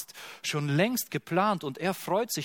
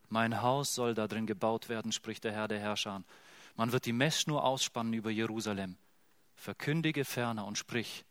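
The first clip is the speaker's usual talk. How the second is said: softer, lower, hushed promise; quiet scripture reading; 4 semitones lower, 6 dB quieter than usual. Acted. Preacher reads God's promise softly, hushed and tender. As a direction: let the comfort settle gently.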